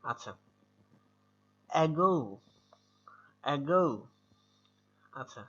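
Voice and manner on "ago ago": "ago" with a clear opening vowel and a long gliding o; drawn-out vowels. Shown as a demonstration. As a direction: stretch the end of "ago" as a pronunciation model. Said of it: "অনেকটা এ আবার অর মতো".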